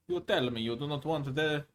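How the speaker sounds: put-on Italian accent, playful; mock Italian accent. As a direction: play it as a hammy Italian. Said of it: "And that was still Italian".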